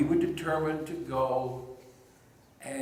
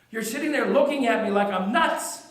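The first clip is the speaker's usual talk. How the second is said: Mary recounting the empty tomb, moved to tears then overjoyed; a witness reliving the morning she met him; grieving then joyful Mary; 4 semitones higher, 4 dB louder than usual. Acted. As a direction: speak as Mary, from grief to wonder. Woman performs Mary's resurrection monologue.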